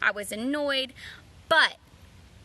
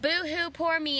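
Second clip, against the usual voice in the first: whiny mock boo-hoo, a little higher; mocking someone feeling sorry for themselves; sarcastic fake whimper; mock pity party; 4 semitones higher than usual. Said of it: "throws this pity party".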